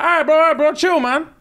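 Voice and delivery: high-pitched, hammed-up calming down; imitating someone pleading for calm; mock placating. Acted soothing of needy suitor.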